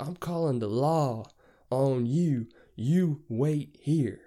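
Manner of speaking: loud, slow, drawn-out threat; threatening driver. Retold or imitated. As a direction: mimic him laying down the law, word by word.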